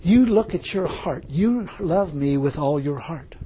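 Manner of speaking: slow, measured divine voice; gently voiced words from God. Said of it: "these words came out".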